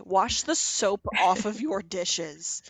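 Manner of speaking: slow, drawn-out playful plea; mock begging. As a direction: plead in jest, stretching the words. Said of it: "begging you".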